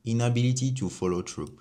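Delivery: English phrase in a French accent; self-mocking French-accented English. Real, not acted. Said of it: "mon accent, il est dégueulasse".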